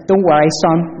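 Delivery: put-on a light Northern Irish accent on "Don't worry, son"; hint of a Northern Irish lilt, mildly voiced. Shop assistant comforting a lost boy in a light Northern Irish accent. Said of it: "in a really strong Northern Irish accent".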